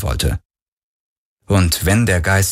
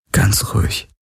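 gentle; 2 semitones higher than usual. Acted. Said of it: "sagte er mit sanfter Stimme".

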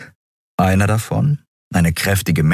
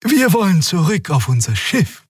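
Xea explaining; 13 semitones higher than usual. A narrator's reading. Xea answers the guard.

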